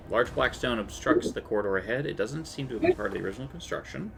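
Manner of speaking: measured dungeon description; scene narration. Acted. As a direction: set the scene like a game master. GM reads room description.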